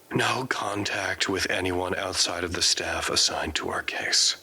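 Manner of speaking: whispered narration. Acted. Prisoner whispering about his isolation, hushed and resigned. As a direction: let the words fall to a bare whisper. Lonely inner monologue in containment.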